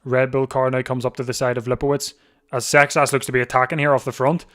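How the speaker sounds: live play-by-play. Real, not acted. Commentator tells viewers of an attack from the favourites group, urgent play-by-play. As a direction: call the attack as it happens.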